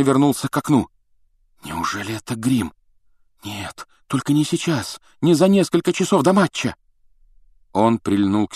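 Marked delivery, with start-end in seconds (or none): 1.6-6.8 oh no, not now; alarmed inner thought. A narrator's reading. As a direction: voice climbing in dismay. Harry's alarmed thought before the match.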